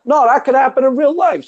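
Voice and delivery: high, hammed-up New York movie tough guy; New York accent. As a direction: play the Brooklyn wiseguy raving about a movie. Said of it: "that's my New York".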